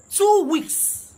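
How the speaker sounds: outraged outburst. Real, not acted. Commentator outraged at long captivity.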